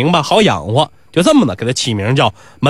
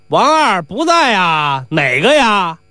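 calling through door; 4 semitones higher, slower than usual. Acted. Doorman answers through closed door.

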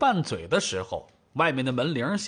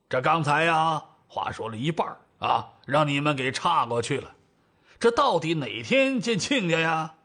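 put-on old father, persistent. Father pressing for a meeting date, persistent. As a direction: plod back to the interrupted point.

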